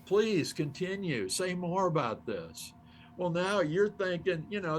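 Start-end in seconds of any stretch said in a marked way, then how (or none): 0.0-2.7 impressed. Acted. Coach eagerly taking notes on Anik's answer, impressed. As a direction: stretch out the praise, then urge them on.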